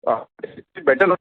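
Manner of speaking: choppy, breaking phone line; glitching audio. Real, not acted. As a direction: voice dropping out on a bad connection. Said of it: "still the audio is breaking".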